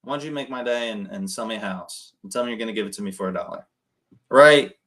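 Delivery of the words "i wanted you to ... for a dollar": joking. Shown as a demonstration. Caller joking with seller Dennis to make him laugh, playful. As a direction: ham it up to get him laughing. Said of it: "And then I could be a joke like".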